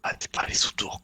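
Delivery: ordinary delivery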